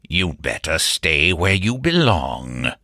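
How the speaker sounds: slow, growling butler voice; thick growl. A narrator's reading. Menacing butler warning the new servant, in a thick growl. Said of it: "in his thick, growling voice".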